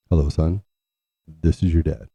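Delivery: mild formal dad greeting, a throat clear first; lightly voiced stern father on the phone; imitating dad. Son mimics his father's phone greeting, understated. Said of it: "He would clear his throat".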